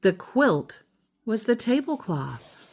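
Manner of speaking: steady storybook read-aloud; reading to a child. A narrator's reading. Parent reading The Keeping Quilt to child, storybook voice. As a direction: read it gently to your child at bedtime.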